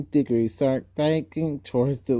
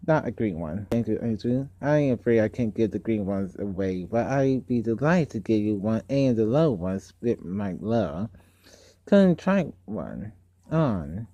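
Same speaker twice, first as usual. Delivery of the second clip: put-on lower, quieter coaxing old man; soft sly uncle; 4 semitones lower, 3 dB quieter than usual. Uncle offers the girl a ring, softly coaxing. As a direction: coax her gently, hiding a trick.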